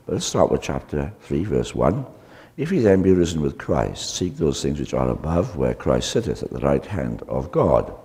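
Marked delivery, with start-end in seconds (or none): 2.6-7.9 solemn Bible reading, a touch louder; scripture reading. Acted. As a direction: read the verses out to the congregation. Reads scripture aloud.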